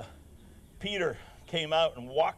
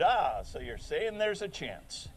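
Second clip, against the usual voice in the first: movie quote; 4 dB quieter than usual. Retold or imitated. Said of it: "When he said".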